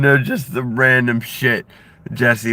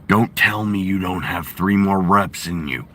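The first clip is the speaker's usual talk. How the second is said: Jesse Ventura impression; 2 semitones lower than usual. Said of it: "I've been working on my Jesse Ventura".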